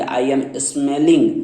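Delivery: very slow, drawn-out words; slow example. Shown as a demonstration. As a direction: lay each word down for students. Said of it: "तो क्या बोलेंगे".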